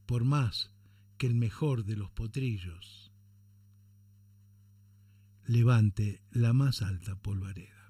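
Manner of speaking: measured, solemn poem reading with falling line ends; poem recitation. Acted. Radio host reciting a political poem to listeners, declaimed. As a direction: recite the verses deliberately, pausing between lines.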